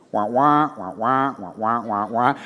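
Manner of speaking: muffled trombone-like wah wah sounds; Charlie Brown wah wah. Retold or imitated. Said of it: "I sounded like the adults in a Charlie Brown cartoon".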